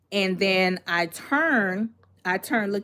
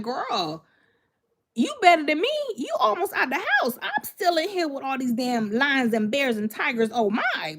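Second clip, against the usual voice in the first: much higher, excited retold plea to a friend; frantic mock plea; 4 semitones higher than usual. Narrator voicing herself to crying friend Michelle, high and frantic. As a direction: squeal it like you're trapped with lions and tigers. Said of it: "I'm looking at Michelle like".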